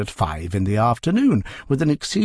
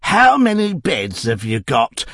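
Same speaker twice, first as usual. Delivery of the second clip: screamed; 2 semitones higher, 4 dB louder than usual. Acted. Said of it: "screamed Missus Tuggs".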